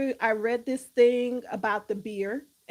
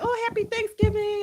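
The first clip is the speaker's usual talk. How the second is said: mock holiday cheer; 9 semitones higher, 4 dB louder than usual. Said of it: "A lot of people were like".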